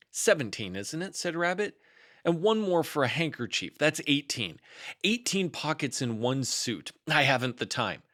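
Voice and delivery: lightly voiced fussy Rabbit; a hint of a busy rabbit.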